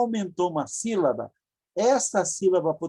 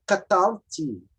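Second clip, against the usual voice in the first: 1 slow model word; slower than usual. Shown as a demonstration. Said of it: "Ti é a primeira pessoa".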